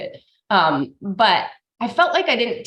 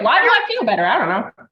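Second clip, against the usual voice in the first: put-on puzzled kid; 3 semitones higher, 5 dB louder than usual. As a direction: play a clueless nine-year-old.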